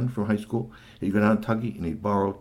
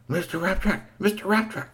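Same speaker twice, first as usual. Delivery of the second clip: higher, pleading call; urgent call; 9 semitones higher than usual. Acted. GP calling Marvel from the tree, urgent and higher. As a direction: call out for help.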